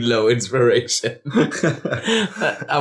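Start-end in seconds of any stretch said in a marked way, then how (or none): 0.0-1.2 low savoring quote. Retold or imitated. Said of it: "That's the best thing you've ever written".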